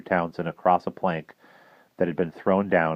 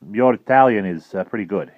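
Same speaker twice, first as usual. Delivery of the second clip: teasing admiral; 3 semitones higher, 6 dB louder than usual. Acted. Admiral teases in English.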